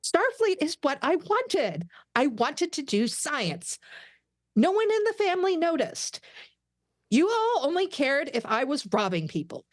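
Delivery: pleading outburst. Acted. Tendi confronts family over Starfleet.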